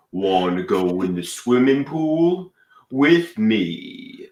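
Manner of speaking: put-on Brooklyn accent with drawn-out ending; fake Brooklyn accent. Inviting a supermodel to swim, fake Brooklyn accent. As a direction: Brooklyn come-on, stretching the last words. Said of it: "talking to her in a fake Brooklyn accent".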